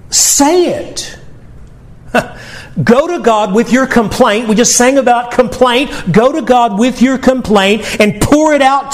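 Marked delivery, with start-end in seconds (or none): 0.1-4.5 high urging push. Real, not acted. Pastor urging the hurting church, high urging push. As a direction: nudge them to speak up. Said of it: "when that's how it feels".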